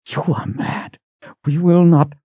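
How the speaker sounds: high, sharp refusal; Sister Verna in a rage. A narrator's reading. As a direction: refuse him in disbelief. Sister Verna voiced, raging.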